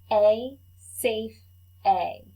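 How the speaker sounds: each sound said slow and clear for the class to copy; teacher modelling A for repeat; vowel demo. Shown as a demonstration. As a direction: model the long vowel for echo. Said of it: "I'll say it, then you say it".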